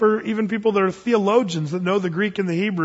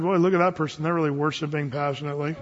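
scornful attitude; 3 semitones lower, 3 dB quieter than usual. Retold or imitated. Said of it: "that attitude".

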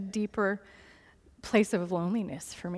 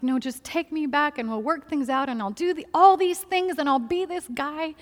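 higher-pitched imitation of pleading; retold tearful pleading; 5 semitones higher than usual. Retelling estranged husband's phone plea, mock pleading. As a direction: mimic desperate begging, pitch lifted, no real tears. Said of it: "he's crying and like".

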